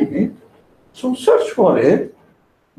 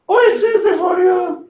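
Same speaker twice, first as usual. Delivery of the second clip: mock exclamation; 12 semitones higher than usual. Voicing someone reacting to directions.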